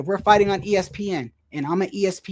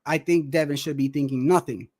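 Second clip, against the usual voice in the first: imitating Antonio's reply; 4 semitones lower than usual. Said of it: "Antonio turns around and says".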